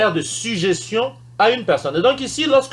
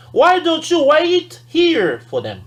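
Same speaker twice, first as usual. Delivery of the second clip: polite suggestion; 8 semitones higher, slower than usual. Shown as a demonstration. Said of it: "si on veut par exemple dire".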